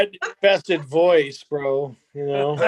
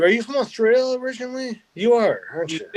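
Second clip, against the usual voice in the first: ordinary delivery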